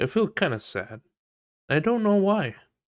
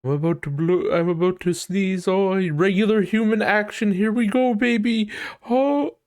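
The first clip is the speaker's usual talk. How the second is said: very high, louder, hammed-up announcement; mocking show-off; 9 semitones higher, 4 dB louder than usual. Mocking a sneezer who demands attention, squeaky and hammy. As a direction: build it up like a big show. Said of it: "they have to draw in attention".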